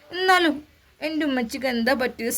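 put-on a little boy begging to know; small son's voice. Small son presses his mother in bed, high child voice.

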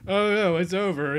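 sudden high oh no; surprised. Real, not acted. Gamer realising the game already ended, surprised. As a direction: caught off guard.

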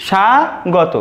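স্বাগত said as "sha-go-to", falling; correct pronunciation. Shown as a demonstration. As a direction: model স্বাগত slowly as "sha-go-to". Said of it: "সঠিক উচ্চারণ হবে দেখো স্বাগত".

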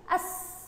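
أس as one joined syllable ending on a held hiss; snatch the alef straight into the seen: أس. Shown as a demonstration. Teacher showing pupils a silent letter, أس snatched as one syllable. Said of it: "أخطف مع بعض الألف مع السين".

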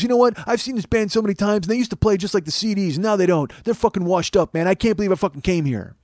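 retold disgruntled fan rant, mildly heated; mock-indignant complaining; heckler yelling. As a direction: gripe like a let-down loudmouth fan. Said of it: "he's yelling, and he's being loud".

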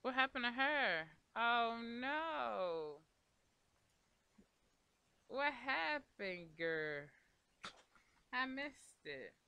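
high, loud alarmed cry; loud high dismay at what happened to her Sim; shocked alarm. Real, not acted. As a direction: gasp out in real shock. Sim suddenly in trouble.

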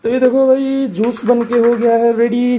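cheerful presenter's reveal; excited showing off. Real, not acted. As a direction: show it off like a proud cook. Showing off the finished shake.

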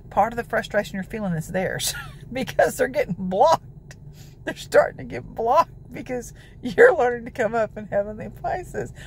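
laughing through the words with a teasing edge; real amused laugh breaking into the line; facetious laughing. Real, not acted. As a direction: chuckle it out, half joking. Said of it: "that's kind of facetious".

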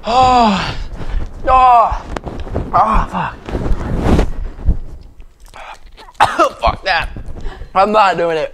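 high, pained gasps, mouth on fire; mouth burning from spicy food. Real, not acted. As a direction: groan through the burning heat.

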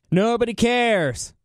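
high, drawn-out mock dismissal; dismissive interruption. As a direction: cut them off with a long, scornful reply. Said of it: "immediately interrupts the answer".

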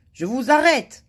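high, loud grumpy arrest; growling. A narrator's reading. Guard arrests Madame Bonheur, growling. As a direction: announce it as a cross growl. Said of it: "grogna le, le garde".

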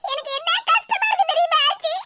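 high tearful complaint; crying. Acted. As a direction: plead through tears to be understood. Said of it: "இப்படி கிடந்து கண்ணீரை வடிக்க". (கண்ணீரோடு புலம்பல்)

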